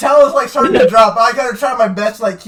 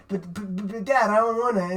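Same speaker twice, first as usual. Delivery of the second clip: stammering, lightly voiced whiny son; reluctant Shinji; 6 dB quieter than usual. Shinji balking at his dad, lightly acted stammering protest. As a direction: stumble over the start, a hint of reluctant kid. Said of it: "Shinji's like".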